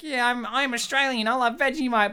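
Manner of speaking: hammed-up Australian character voice; fake Australian accent. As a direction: put on an unconvincing Australian accent. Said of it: "Oh, this sounds so fake".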